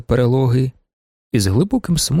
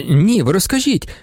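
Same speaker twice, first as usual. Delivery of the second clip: eager pleading; 7 semitones higher than usual. Acted. Okhotsky eagerly questioning.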